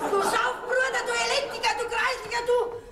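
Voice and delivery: höher und lauter, lachend schimpfend; wütendes Schimpfen. Acted. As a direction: die Schimpfwörter halb lachend herausschleudern. Mutter schimpft über den Mann. (lachend geschimpft auf den Mann)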